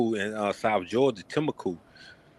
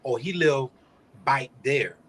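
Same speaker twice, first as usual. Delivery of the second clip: country dialect. Retold or imitated. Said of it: "you might hear somebody say".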